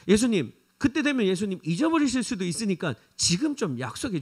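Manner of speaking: urgent, insistent begging; pleading mother. Acted. Mother begging Jesus to seat her two sons, insistent plea. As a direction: press Jesus for a promise, not letting go.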